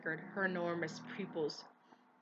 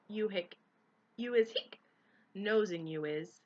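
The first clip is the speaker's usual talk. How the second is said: put-on drunk accusing elf; 5 dB louder than usual. A narrator's reading. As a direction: slur the accusation.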